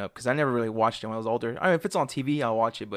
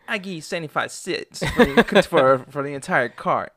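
laughing mid-quote, slower at the end; laughing through quote; 4 semitones higher, 4 dB louder than usual. Retold or imitated. Retelling the movie's classic line, laughing. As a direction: hold back laughter while quoting.

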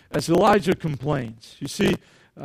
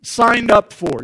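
slow, weary complaint to God; a tired gripe, drawn out; mild complaint; slower than usual. Retold or imitated. Elijah complaining to God, slow and weary. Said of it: "complaining to God".

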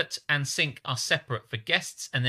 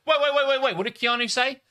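high, loud mock panic; mock outburst; 10 semitones higher, 4 dB louder, faster than usual. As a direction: blurt it out in a hammed-up rush. Mock outburst quoting Keanu.

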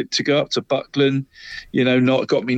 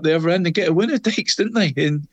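thrilled, voice climbing high; breathless delight at the late winner; excited; 6 semitones higher than usual. Real, not acted. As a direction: pitch jumps up with a laugh.

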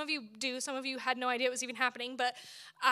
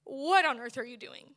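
despairing complaint; 3 semitones higher than usual. Retold or imitated. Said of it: "And I'm like".

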